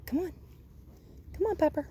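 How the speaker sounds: cheery high coaxing call; high bright call. Real, not acted. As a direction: call up high to coax the dog along. Calling the dog on.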